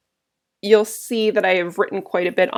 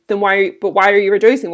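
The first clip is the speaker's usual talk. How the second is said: mildly upset Marullus; 5 dB louder than usual. Retold or imitated. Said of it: "Marullus is upset".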